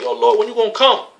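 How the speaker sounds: high, pleading complaint to the Lord; impatient believer. Retold or imitated. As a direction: act out an impatient brother begging. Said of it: "That happens to us sometimes".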